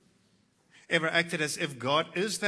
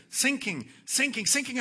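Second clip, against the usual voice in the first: rising despair; 7 semitones higher, 5 dB louder than usual. Acted. Preacher voicing sinking depression.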